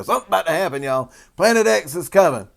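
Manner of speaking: loud, high-pitched mock alarm; mock doomsday warning. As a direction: sound the alarm like a hammed-up doom-monger. Mocking past doomsday warnings.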